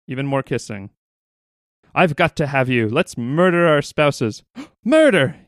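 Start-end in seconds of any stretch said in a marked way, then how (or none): 1.9-4.4 slow, louder melodramatic lover's line; hammed-up soap lover. 4.5-5.4 much higher, louder shocked "Murder?"; mock shocked gasp. Soap lover reacts to murder.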